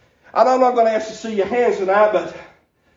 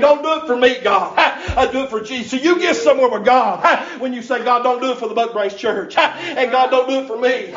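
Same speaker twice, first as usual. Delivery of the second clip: preaching at full force. Acted. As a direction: whoop it up like a revival preacher, breath punching every line. Preacher returns to chanted preaching.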